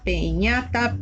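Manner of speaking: "peñata" with E in the first syllable; trial vowel E. Shown as a demonstration. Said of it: "busco una vocal que case". ("peñata" con E en la primera sílaba)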